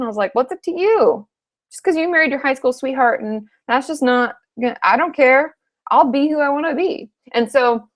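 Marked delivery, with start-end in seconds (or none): 0.3-7.1 defiant retort. Retold or imitated. Retort to brother about settling down.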